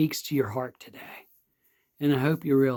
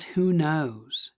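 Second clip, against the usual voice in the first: hushed wondering. Retold or imitated. The king wonders aloud to his people, whispered. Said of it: "And the king says".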